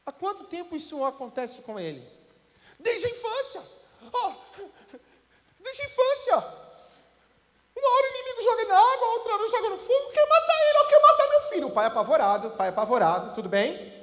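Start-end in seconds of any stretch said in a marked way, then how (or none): 0.0-2.1 soft, unhurried, reassuring; Jesus calm before a frantic father. Retold or imitated. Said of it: "Jesus, calmo, tranquilo". 2.8-11.7 high, loud, rushing desperate father; a father crying out that his son may die; frantic father. Retold or imitated.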